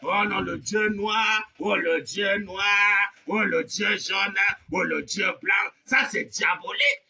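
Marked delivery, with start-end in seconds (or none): none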